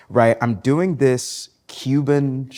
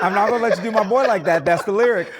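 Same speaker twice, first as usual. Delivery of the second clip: laughing; 6 semitones higher than usual. Real, not acted. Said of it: "He's honoring the original".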